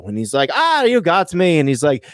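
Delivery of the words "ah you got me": high, drawn-out Irish leprechaun; dodgy Irish-or-Scottish accent; comic Irish accent. Acted. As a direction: put on a slow, high-pitched Irish lilt. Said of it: "don't even know if that's Scottish or Irish".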